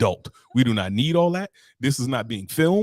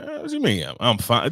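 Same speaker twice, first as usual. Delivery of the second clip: offended sassy. Retold or imitated.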